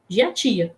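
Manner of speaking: "geatia" run together, soft gê at the start; child's reading, joined. Shown as a demonstration. Child reading back her spelling, "geatia" joined with soft gê. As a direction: blend gê-a-ti-a into one word, "geatia". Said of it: "ela vai ler geatia".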